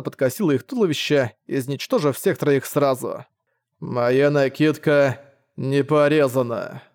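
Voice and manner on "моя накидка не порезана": slow, lisping grumble; slushy lisp. Acted. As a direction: lisp it slowly. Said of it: "буркнул белый рыцарь".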